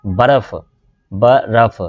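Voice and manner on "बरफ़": बरफ़ in two syllables, ba-raf; correct pronunciation demo. Shown as a demonstration. Teacher showing the vowel mark, careful demo of बरफ़ as ba-raf. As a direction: sound out बरफ़ with a short a after b. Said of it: "बे के ऊपर ज़रब है".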